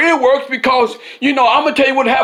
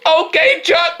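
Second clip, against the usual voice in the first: higher, sweet agreement; Nancy agreeing to stand with Chuck, higher and sweet; agreeable Nancy; 7 semitones higher, slower than usual. Acted. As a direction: answer him sweetly, a bit higher. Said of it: "She go".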